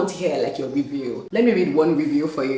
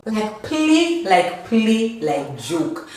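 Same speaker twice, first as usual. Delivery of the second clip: excited disbelief; 3 semitones higher, much slower than usual. Real, not acted. Disbelief, repeating "like play.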